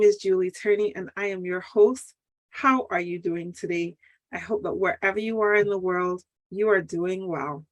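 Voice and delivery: talking through a sore tooth; toothache. Real, not acted. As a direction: speak around an aching tooth. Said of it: "excuse the goofiness in how I sound. My tooth is killing me".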